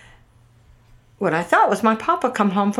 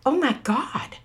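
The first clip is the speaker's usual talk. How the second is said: hushed retelling of shock, pitched up; stunned, spooked; 3 semitones higher, 5 dB quieter than usual. Retold or imitated. Mom learns of the ghost coincidence, stunned and hushed. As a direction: softly act out someone gone white with shock. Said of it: "she turned white and said".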